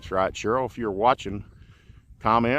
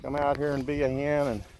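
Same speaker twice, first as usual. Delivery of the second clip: talking to chickens; 6 semitones higher than usual. Real, not acted. Talking sweetly to the hens.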